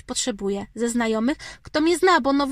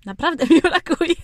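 cytat przez śmiech, głośniej; rozbawiona, z wybuchem śmiechu na końcu; śmiejąc się; 6 semitones higher, 8 dB louder than usual. Retold or imitated. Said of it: "że". (ze śmiechem)

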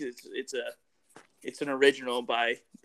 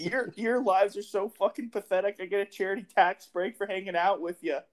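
Letterkenny quote; 5 semitones higher than usual. Retold or imitated.

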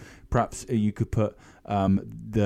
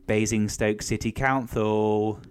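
slow formal phone greeting; slow receptionist greeting; 3 semitones lower, much slower than usual. Acted. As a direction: answer the phone like a clerk.

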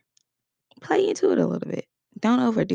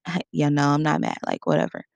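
dismissive; 3 semitones lower, faster than usual. Shown as a demonstration. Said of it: "moving my hands around".

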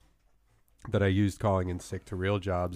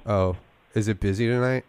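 fake sick voice. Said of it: "my fake sick voice".

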